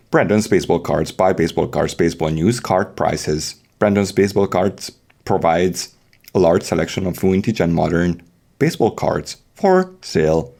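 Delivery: a mock radio ad, read straight. Podcast host jokingly reads a fake sponsor ad, mock ad read. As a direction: pitch the baseball card shop like a sponsor spot.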